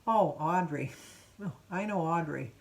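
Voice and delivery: a weary, knowing "oh, Audrey"; knowing sigh. Retold or imitated. Clerk recognizing the troublemaker, knowing and weary. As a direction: say it like you know her all too well. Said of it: "this is exactly how she said it".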